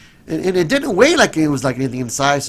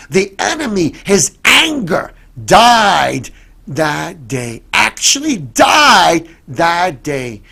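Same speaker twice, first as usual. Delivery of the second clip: preaching emphasis; 3 semitones higher, 5 dB louder, slower than usual. Acted. Preacher building to climax.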